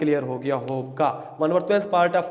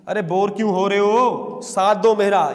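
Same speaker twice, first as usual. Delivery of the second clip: louder, energetic call to join in; rallying the class; 5 dB louder than usual. Real, not acted. Teacher urging bored students to respond, loud rallying call. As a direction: rouse a bored class loudly.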